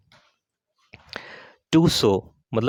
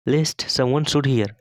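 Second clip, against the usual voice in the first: each word drawn out slowly for learners; slow dictation; much slower than usual. Shown as a demonstration. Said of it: "teacher models English sentence slowly". (बहुत धीरे, शब्द-शब्द करके)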